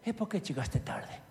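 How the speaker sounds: a hint of a stern Italian boss questioning; mildly stern Italian boss. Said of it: "jefe italiano que me dice".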